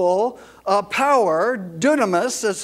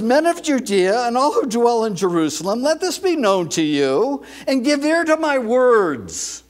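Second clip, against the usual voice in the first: brisk, projected proclamation; command voice; 3 semitones higher, 3 dB louder than usual. Acted. Peter preaching to the men of Judea, command voice. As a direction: proclaim it to a big crowd. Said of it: "he has to use what we call in law enforcement a command".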